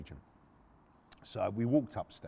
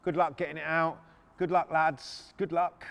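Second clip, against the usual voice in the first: higher-pitched, cocky mock well-wishing; taunting; 5 semitones higher, 4 dB louder than usual. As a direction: wind them up with fake generosity. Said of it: "He's just being a prick".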